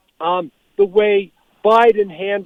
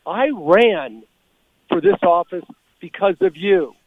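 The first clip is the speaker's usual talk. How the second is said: measured quote with a weighty pause; calm, deliberate; 2 semitones lower than usual. Retold or imitated. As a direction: deliver the retort evenly and deliberately. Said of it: "calmly and deliberately".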